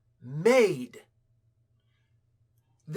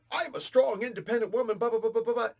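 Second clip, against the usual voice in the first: mocking; 5 semitones higher, 4 dB louder than usual. Mocking a self-important stereotype.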